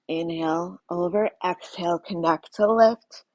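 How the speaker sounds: strained, shaky breath through the words. Real, not acted. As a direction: voice shaking from effort. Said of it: "I'm getting the verbal shakes".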